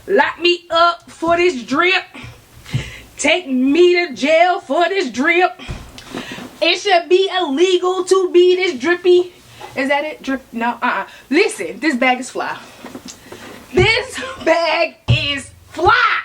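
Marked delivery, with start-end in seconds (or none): 0.1-9.3 show-off brag. Real, not acted. Showing off the bag. 13.7-16.2 "This bag is fly" stretched out slow and shouted; slow loud hype. Shown as a demonstration. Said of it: "repeat for emphasis".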